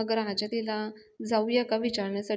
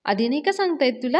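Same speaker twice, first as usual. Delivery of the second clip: loud, fast, higher scolding; constable yelling; 4 semitones higher, 6 dB louder, faster than usual. Retold or imitated. Constable yells at Raja for not saying it earlier. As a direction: snap at him for hiding it. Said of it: "राजावर ओरडतात".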